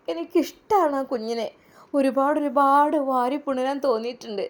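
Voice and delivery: put-on wife offering to raise the baby; loving wife. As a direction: comfort him tenderly. Batool voiced, loving.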